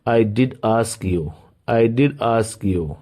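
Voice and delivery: slow, emphatic did. Shown as a demonstration. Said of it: "मैंने पूछा तो था".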